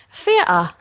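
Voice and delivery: "theatre" said as "fee-uh"; East London th-fronting. Retold or imitated. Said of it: "to be slightly well-spoken".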